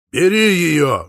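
a loud, high, rousing yell; cheering shout. A narrator's reading. Brother cheers the suitor on, shouting loudly. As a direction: egg him on at full voice. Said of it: "закричал Ян Паулюс".

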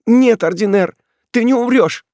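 high, loud anguished cry; desperate plea. Acted. Ethel crying out to the condemned Ordener, desperate and loud. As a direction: beg him with everything, voice up high.

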